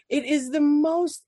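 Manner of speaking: ordinary talk, nothing marked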